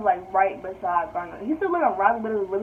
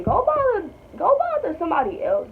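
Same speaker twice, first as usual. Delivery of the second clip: fed up; 8 semitones higher than usual. Acted. Telling off a creepy coworker.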